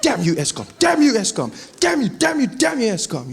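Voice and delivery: mock rage, pitch leaping up; losing it. Man stuck in his car cursing Eskom, losing it. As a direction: repeat the curse in a hammed-up tantrum. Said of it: "I just started losing it in the car".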